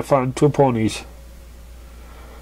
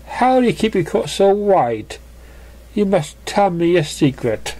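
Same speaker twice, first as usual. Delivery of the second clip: lightly voiced Rarity; 6 semitones higher than usual. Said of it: "said Ratty, eyeing".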